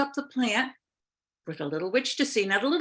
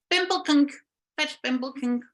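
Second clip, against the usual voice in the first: high witch voice; 5 semitones higher than usual. Acted. The witch names the plant.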